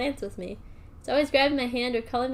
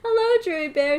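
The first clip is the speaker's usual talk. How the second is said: cheery greeting; 3 semitones higher, 4 dB louder than usual. Acted. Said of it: "she greeted them".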